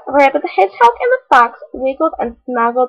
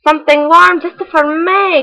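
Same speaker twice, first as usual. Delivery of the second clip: selfish; 5 semitones higher than usual. Acted. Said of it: "he was selfish".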